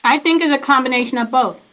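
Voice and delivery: talking while chewing; words round a bite of granola bar; mouth full. Real, not acted. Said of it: "I need to quit eating and talking".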